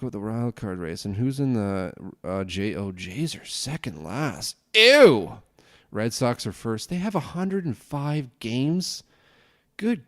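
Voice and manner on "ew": disgusted ew. Real, not acted. Reacting to Jays' bad record.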